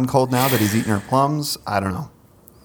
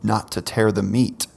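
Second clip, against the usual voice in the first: poem reading. Acted. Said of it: "another lovely ode to fruit".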